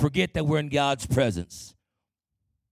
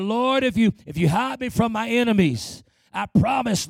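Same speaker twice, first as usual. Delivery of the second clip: higher, acted pleading prayer; desperate bargaining; 5 semitones higher than usual. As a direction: play a believer bargaining with God.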